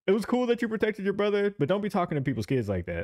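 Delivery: high-pitched imitation of mom letting it slide; mom's mild scolding. Retelling mom's gentle scolding.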